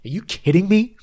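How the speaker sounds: building from stunned to shrieking high and loud; mock outrage. Ramona exploding at Bethany, building to a shrill outraged shriek. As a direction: climb into an indignant screech.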